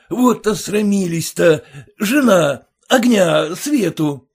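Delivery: loud, high calls to the household; calling out. A narrator's reading. Merchant calling wife and servants for light. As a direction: summon them all in a fluster.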